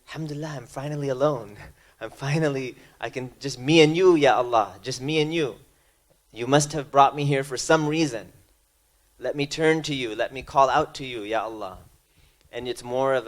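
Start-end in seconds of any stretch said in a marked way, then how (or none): 0.1-11.8 bright, grateful call to Allah; a hint of joyful relief; grateful prayer. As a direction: sound thankful to be alone with God. Grateful turning to God.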